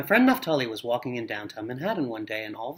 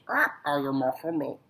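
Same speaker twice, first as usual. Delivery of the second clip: frightened parrot. Acted. Scared parrot after freezer.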